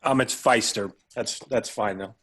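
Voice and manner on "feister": FEISTER, first syllable rhyming with "eye"; corrected surname pronunciation. Real, not acted. Guest correcting host on his surname, "Feister" with an eye sound. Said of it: "did I s-, pronounce that last name right".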